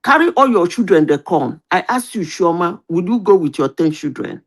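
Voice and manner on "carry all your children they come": mildly raised proclamation voice; lightly acted town-crier announcement; public announcer. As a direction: announce it to everybody in Pidgin. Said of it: "they shall say".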